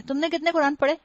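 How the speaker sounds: imitated curious asker; nosy question. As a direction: lightly mimic an eager guest asking. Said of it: "سب سے favourite سوال سب کا".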